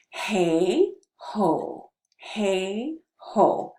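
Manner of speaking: "Hey ho" with the mouth very open, then rounding out; "Hey ho" as an open-mouthed articulation drill; wide open hey ho. Shown as a demonstration. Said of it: "So our mouth is very open".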